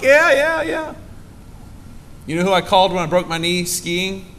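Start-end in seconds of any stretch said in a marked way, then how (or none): 0.0-0.9 much higher, quick breezy yeahs; hammed-up mom agreeing. Pastor voicing his mother brushing off his doubt, high and breezy. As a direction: brush it off cheerfully like a doting mom. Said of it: "You're like".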